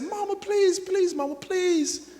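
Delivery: put-on high begging kid voice; pleading child. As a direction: beg like a ten-year-old. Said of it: "I looked my mama in the face and I said".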